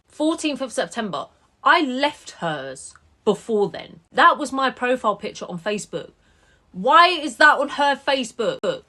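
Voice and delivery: loud, incredulous, pitch up; disbelieving outburst, rising; real outrage. Real, not acted. Creator outraged at foster carer's posts, disbelieving loud voice.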